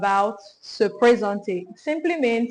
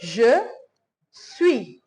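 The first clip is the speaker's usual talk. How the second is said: word by word. Shown as a demonstration. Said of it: "You say".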